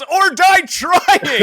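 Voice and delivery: very high, loud, drawn-out mock battle cry; hammed-up yell. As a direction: bellow it as if leaping into battle. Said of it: "jumps up into the air and yells".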